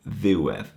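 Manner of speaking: "ddiwedd" with the weight on "ddiw"; stress on first syllable. Shown as a demonstration. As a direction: show the accent on "ddiw" in "ddiwedd". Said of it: "The accent is on the ddiw".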